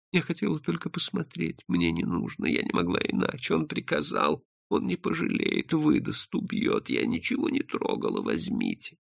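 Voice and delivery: soft, breathy, fearful pleading; frightened half-whisper, sinking as it goes; frightened confession. Acted. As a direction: plead in a hushed, helpless voice.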